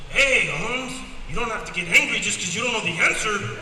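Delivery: high, loud shout from a beaten lion saving face; wounded cocky lion. Acted. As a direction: lew udaje, że nic się nie stało, głośno. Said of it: "the lion goes".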